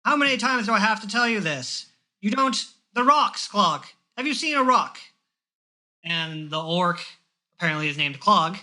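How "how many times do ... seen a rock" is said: put-on high, exasperated old man scolding; old man scolding, higher and louder. Old man lecturing the orc, exasperated and higher. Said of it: "And the old man says".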